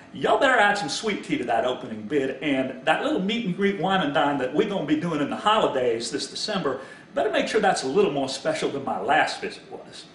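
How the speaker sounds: pointed mock warning in a wife's voice; Kristen Lee. Wife warns the Yankee front office, lightly imitated. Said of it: "Kristen Lee saying to the Yankee front office".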